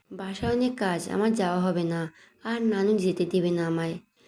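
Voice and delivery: plain reading voice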